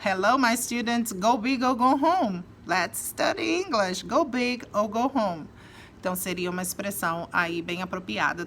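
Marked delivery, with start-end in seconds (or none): 0.1-5.5 teacher pep talk. Shown as a demonstration. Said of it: "falar como professora de inglês aqui".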